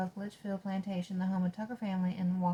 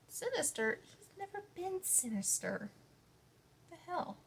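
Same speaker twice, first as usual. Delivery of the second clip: high, incredulous outburst; indignant disbelief; 10 semitones higher, 5 dB quieter than usual. Real, not acted. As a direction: scoff in disbelief at the word. Indignant at book's ghost description.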